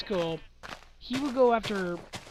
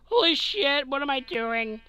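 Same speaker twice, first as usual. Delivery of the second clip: put-on panicky young guy; 6 semitones higher than usual. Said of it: "Instead of when we're younger".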